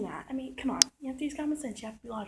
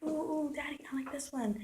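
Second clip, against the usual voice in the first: lightly voiced whining kid, a bit higher and quick; whiny little boy; 5 semitones higher, faster than usual. The boy pleading with his daddy in a store, mild mock whine. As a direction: plead like a small boy shaking a backpack. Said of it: "he was just like".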